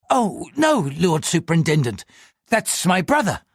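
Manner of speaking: high, anxious pleading voice; a frightened man answering the police; nervous clerk. Acted. Nervous clerk answers the superintendent in a high, anxious voice.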